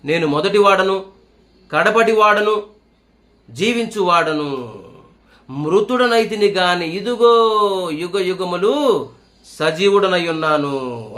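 very slow, drawn-out proclamation; solemn scripture recital. Acted. Preacher proclaiming Christ's words to the congregation, very slow. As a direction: let each phrase ring out slowly.

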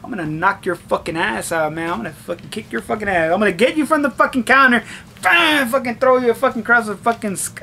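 muttered inner threat, building up; imagined rant building from hushed to heated. Retold or imitated. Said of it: "inside I'm just like".

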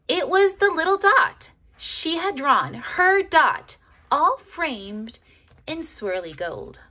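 narrator's voice lifts in astonishment; surprised narration. A narrator's reading. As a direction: gasp it out in wonder. Surprise at framed dot.

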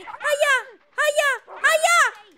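high, loud cries of pain and panic. Real, not acted. Gamer cries out as the swarm hits him, panicked. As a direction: yelp as they keep hitting you.

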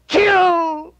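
one savage last command; war cry. Acted. Dying Sarpedon urges his men on, a loud high shout.

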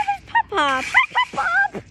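high, loud call across the yard. Real, not acted. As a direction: call him from a distance. Child calls out to grandfather.

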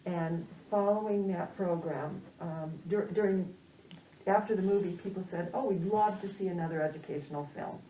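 muffled speech behind a mask; talking through a mask, slightly muffled; through a face mask. Real, not acted. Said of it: "it feels a little awkward to be talking through this mask".

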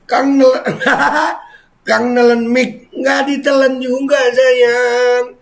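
high, loud giggly voice; squeaky laughter-filled voice; laughing while talking. Real, not acted. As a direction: read it through the giggles. Laughing while reading comment.

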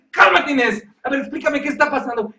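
a lightly voiced husband trying to calm Inés; calm partner voice. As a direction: talk her down, a bit fast. Partner calms panicking Inés.

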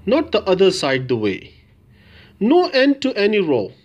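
measured recital, a pause after each short phrase; each "no" phrase set apart with a swooping tune; clear poem recitation. Shown as a demonstration. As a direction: read the poem out with deliberate, clear intonation. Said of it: "read all of the poem with the clear intonation".

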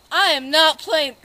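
loud and slow, each word leaned on; loud slow threat. Acted. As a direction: hammer home that he means it. Robber insists he is serious.

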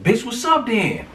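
high, slow, taunting dare; imitating a girl daring another to fight; mock fight challenge. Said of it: "She like".

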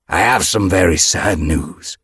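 loud, formal proclamation; announcing. A narrator's reading. Leader breaking sad news to the clan, announcing. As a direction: announce it to a gathered crowd. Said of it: "Broken Star announced".

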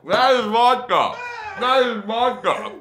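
loud gagging disgust; disgusted yelling. Real, not acted. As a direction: shout out in disgust. Whipped cream vodka shot reaction.

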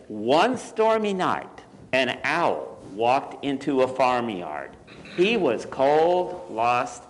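measured picture-book narration with lingering key words; story read to children. A narrator's reading. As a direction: read it to small children, pausing between phrases.

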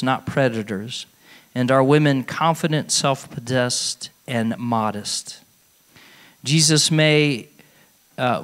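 slow solemn prayer voice. Acted. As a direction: pray it slowly, with reverence. Reads prayer aloud at Mass.

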